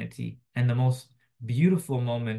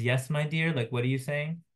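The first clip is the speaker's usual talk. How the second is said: questioning; 3 semitones higher than usual. Retold or imitated. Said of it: "she again questions".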